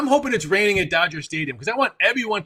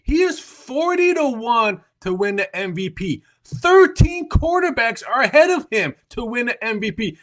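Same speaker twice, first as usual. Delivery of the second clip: heated, higher sports rant, hammering each point; fired-up rant; 4 semitones higher than usual. Real, not acted. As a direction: argue it like your guy got robbed. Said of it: "This is my rant right now".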